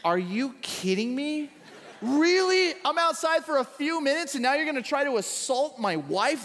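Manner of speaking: laughing, incredulous king; hammed-up jealous husband catching them; mock outrage. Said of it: "And the king goes".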